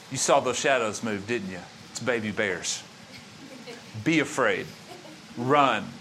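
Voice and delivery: low, soft, sly tempter's voice; a hint of a thief whispering lies into the dark; mock whispering thief. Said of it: "explaining to you what it is you hear".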